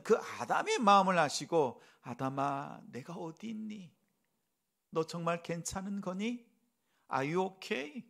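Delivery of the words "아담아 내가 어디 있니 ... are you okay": gentle concern. Shown as a demonstration. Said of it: "저는 이렇게 성경이 읽어졌어요".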